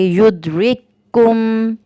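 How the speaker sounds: very slow, drawn-out Quranic recitation. Shown as a demonstration. Teacher reading the first example to students, slow drawn recitation. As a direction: stretch every vowel as in tajweed. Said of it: "इसको ऐसे पढ़ेंगे".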